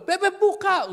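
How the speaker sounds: very high, loud shout; panicky mother's call. Retold or imitated. Mother panics outside child's room, loud high shout. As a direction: imitate mum yelling at the door. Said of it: "paniknya lebih ini".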